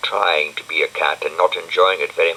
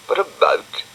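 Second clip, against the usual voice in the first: dog's voice, echoing; 11 semitones higher than usual. Acted. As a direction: repeat it like grumpy Dougal. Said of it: "said Dougal".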